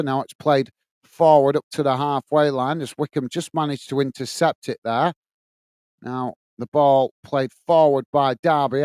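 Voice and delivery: measured football commentary; live play-by-play. Real, not acted. Match commentator telling stream viewers it's a goal kick, measured play-by-play. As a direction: call the match steadily as it unfolds.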